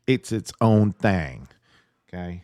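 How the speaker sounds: a quick drawled Southern okay; Southern accent. Shown as a demonstration. To the viewers, a playful Southern okay. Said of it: "I said that with a Southern accent on purpose".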